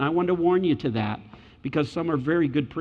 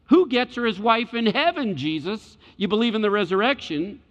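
sarcastic questioning, pitched up at the start; scoffing challenge; 4 semitones higher than usual. Acted. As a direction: mimic sceptics taunting with a trick question. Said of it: "That's kind of their spirit here".

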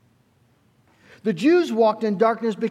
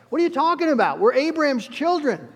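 higher, put-out mock protest; indignant retort; 5 semitones higher than usual. Crowd protesting to John the Baptist, mock indignant and higher. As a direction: play the offended crowd, pitched up. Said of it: "And they're like".

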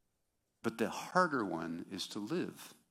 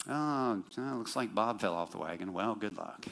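sarcastic. Retold or imitated. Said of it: "I'm being sarcastic".

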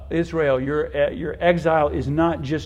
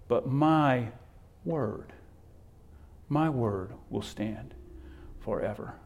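solemn hush; 6 dB quieter than usual. Acted. Solemn quote of God's word.

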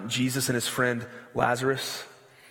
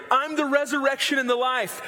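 jubilant proclamation; 10 semitones higher than usual. Retold or imitated. Imagined Jesus to weeping friends: triumphant proclamation. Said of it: "I'd want to just roll up and say".

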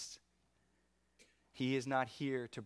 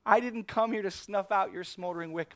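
calling out high and loud to Peter; Jesus booming his promise to a disciple; forceful Jesus; 8 semitones higher, 8 dB louder than usual. Acted. Jesus speaking to Peter: forceful, raised voice.

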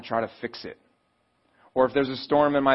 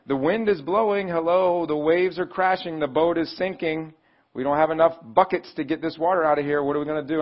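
higher, hammed-up alarm; acted desperation; 3 semitones higher, 3 dB louder than usual. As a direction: imitate disciples rattling off their troubles to a sleeper. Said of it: "And in desperation".

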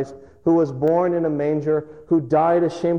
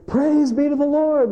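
much higher, loud, slow and exultant; joyful praise; 4 dB louder than usual. Retold or imitated. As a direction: cry out praise with joy. Paul praising from prison.

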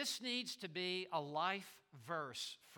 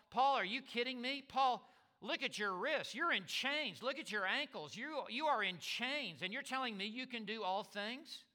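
incredulous onlooker; 6 semitones higher than usual. Retold or imitated. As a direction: scoff at a prisoner in chains. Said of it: "looking on at Paul with just human eyes".

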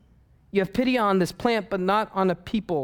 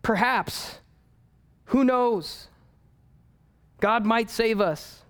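lightly voiced ship captain; 5 semitones higher than usual. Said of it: "the captain ... he says".

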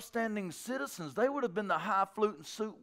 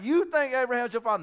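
higher, louder mock challenge; imitated sarcastic challenge; taunting question; 6 semitones higher, 5 dB louder than usual. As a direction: needle them with a pointed question. Jesus mocking opponents, acted.

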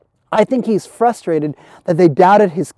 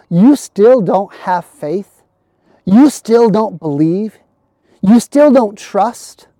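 slow, pleading questions; slower than usual. Acted. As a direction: stretch each question out slowly. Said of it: "message of the story".

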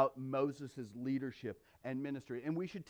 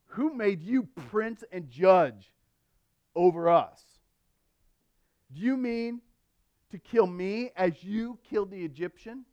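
sarcastic; 2 semitones higher, 3 dB louder than usual. Retold or imitated. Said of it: "you can hear kind of the sarcasm in this man's voice".

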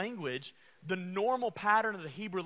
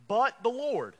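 "but the Lord" louder and higher; louder call; 5 semitones higher, 7 dB louder than usual. Shown as a demonstration. Preacher repeating to a sleepy congregation, louder. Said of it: "Are y'all awake?".

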